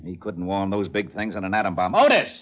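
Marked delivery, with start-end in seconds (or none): 1.9-2.3 calling out loud. Acted. Lieutenant hollers for his officer across the crash site, loud. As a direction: bellow the name across the road. Calls again, louder.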